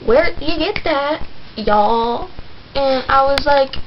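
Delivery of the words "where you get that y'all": sassy auntie asking again; a touch of a sassy aunt. Retold or imitated. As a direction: press her like a nosy auntie. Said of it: "so she was like".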